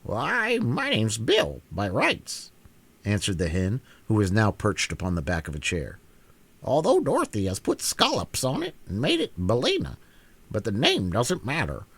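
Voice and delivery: high, pert hen voice, a little self-satisfied; proud hen. Acted. The hen tells the Queen she saved her, pert and proud. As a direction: set the record straight, chin up. Billina explains herself.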